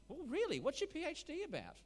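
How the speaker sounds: high, loud mock-curious wolf. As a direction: play a wolf pretending to be interested, pitched high and loud. Joke, wolf asks rabbit.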